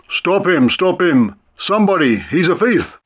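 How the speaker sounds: lightly voiced burly policeman calling out; a hint of a policeman's shout; mock policeman shout. A narrator's reading. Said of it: "our burly policeman's voice shouting".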